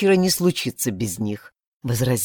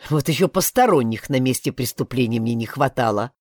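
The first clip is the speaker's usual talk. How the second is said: lower, mild grumble; grumbling; 4 semitones lower than usual. Acted. Blak grumbling at the woman, lower mild grumble. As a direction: grumble it under your breath. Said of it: "проворчал Блак".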